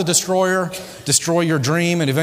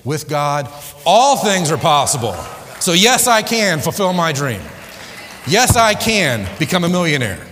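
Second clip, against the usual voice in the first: defiant declaration; 5 semitones higher than usual. Acted. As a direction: build into a triumphant rebuttal, hammering yes I can. Defiant answer to the inner voice.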